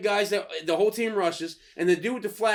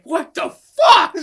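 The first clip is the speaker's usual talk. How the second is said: mock disbelief; 10 semitones higher, 9 dB louder, much slower than usual. Reacting to coach in melee.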